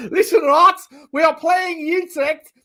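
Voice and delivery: loud, high hammed-up South African accent; slow, exaggerated South African delivery. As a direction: declare it in a mock South African voice. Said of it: "we're doing South African accent".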